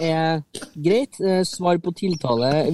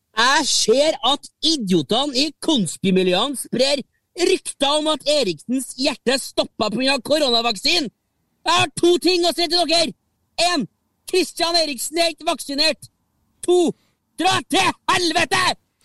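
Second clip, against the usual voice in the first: Trøndelag dialect in a very high voice; 10 semitones higher than usual. Reading aloud a man's tweet, in a put-on Trøndelag dialect. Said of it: "jeg tar han på trøndersk".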